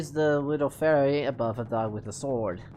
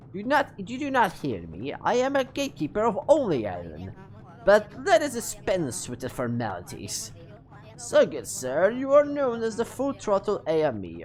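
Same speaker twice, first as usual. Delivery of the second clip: put-on British accent; 4 semitones higher than usual. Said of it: "I forgot to put my British accent".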